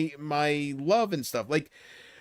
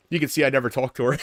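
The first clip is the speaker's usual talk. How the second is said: tag; faster than usual. Real, not acted. Cracks up after mock rant.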